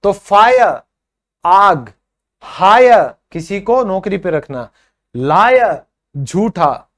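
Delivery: teacher modeling pronunciation; long i sound demo. Shown as a demonstration. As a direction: drill the आइ sound word by word. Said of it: "जैसे आए".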